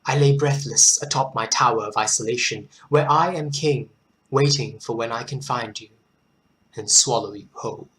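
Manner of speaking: measured poetry reading; poem recitation. Acted. Host reading King for listeners, measured recitation. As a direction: deliver the verse with deliberate pauses.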